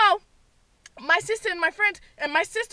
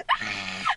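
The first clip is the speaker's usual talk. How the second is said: high thin shriek of fright; scream; 6 dB quieter than usual. Retold or imitated. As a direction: let out a very high startled scream. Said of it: "and I scream".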